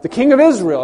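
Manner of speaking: high, loud proclaiming cry; crowd shout. Retold or imitated. Preacher voicing the crowd hailing the king, loud cry. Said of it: "they're crying out".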